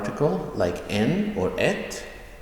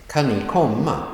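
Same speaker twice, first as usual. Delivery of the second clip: raised pitch, quick Kan ni into stressed komma; 5 semitones higher than usual. Shown as a demonstration. Teacher modelling the question for learners, stress on komma. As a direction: pass over Kan ni and land on komma. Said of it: "That gets a stress".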